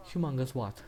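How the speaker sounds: lightly voiced questioning comeback; re-enacted question. Acting out the interviewer's reply, mild questioning imitation. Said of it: "I will try to say it".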